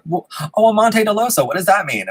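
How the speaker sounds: mock-curious, high-pitched questioner; curious stranger. Stranger asking about the name tag, high-pitched mock curiosity.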